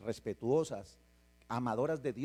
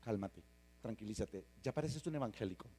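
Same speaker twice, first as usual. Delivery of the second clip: softer, soothing hush; calming parent; 4 semitones lower, 4 dB quieter, faster than usual. Retold or imitated. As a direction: settle the excited kid down gently. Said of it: "tú le dices".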